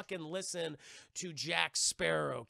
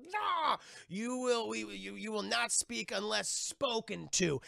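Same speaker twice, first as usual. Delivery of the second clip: stern pirate bark; 4 semitones higher, slower than usual. Retold or imitated. Pirate scolds after backhand.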